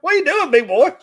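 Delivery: high sing-song pet voice; talking to a dog. Real, not acted.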